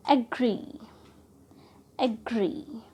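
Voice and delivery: एग्री with GREE stressed; stress on suffix. Shown as a demonstration. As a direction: lean on the final 'ग्री' in एग्री. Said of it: "suffix को ट्रस्ट देते हुए बोलेंगे". (एग्री में 'ग्री' पर ज़ोर)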